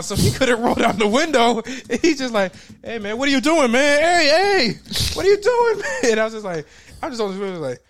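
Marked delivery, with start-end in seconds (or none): 2.8-6.1 much higher and louder, panicked calls; frantic yelling. Retold or imitated. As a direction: friend stuck behind the child lock shouting. Friend yelling at locked window.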